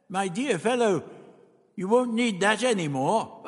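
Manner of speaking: high, lightly amused character voice; chuckling. A narrator's reading. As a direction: say it with a little chuckle round it. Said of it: "The doctor chuckled".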